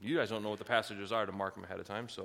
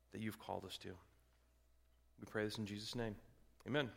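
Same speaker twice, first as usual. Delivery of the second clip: prayer. Acted. Leads the closing prayer.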